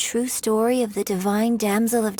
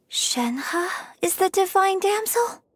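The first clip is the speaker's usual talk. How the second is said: slow, rising question in disbelief; slowly piecing it together, high and amazed; surprised realization; 8 semitones higher than usual. Acted. Sudden realization about Shenhe's identity.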